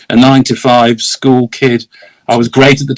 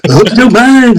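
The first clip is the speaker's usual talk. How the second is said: laughing apology; 9 semitones higher, 3 dB louder than usual. Real, not acted.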